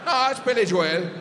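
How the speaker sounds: put-on Irish accent, the surname as two-syllable "Jo-EL"; Irish correction. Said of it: "And he goes".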